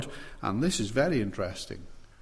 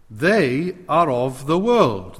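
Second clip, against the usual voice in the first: emphatic quote; 6 dB louder, slower than usual. Acted. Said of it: "he describes the people".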